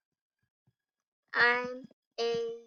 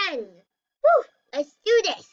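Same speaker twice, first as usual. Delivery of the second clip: cheering; 3 semitones higher, 6 dB louder, slower than usual. Real, not acted. Cheering at game start.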